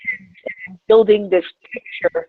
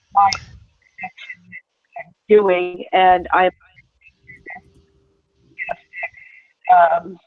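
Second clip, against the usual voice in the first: breaking up on a bad connection; words dropping out, audio cutting in and out; choppy cut off endings. Real, not acted. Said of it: "I only heard, like, maybe about twenty-five percent of that".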